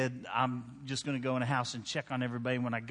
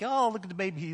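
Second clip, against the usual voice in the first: put-on cooing at a baby; 6 semitones higher, faster than usual. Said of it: "anybody else would like".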